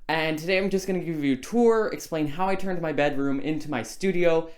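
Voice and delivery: echoey bedroom sound; big hall echo. Real, not acted. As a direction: room echo around the voice. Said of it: "sorry about all the echoiness".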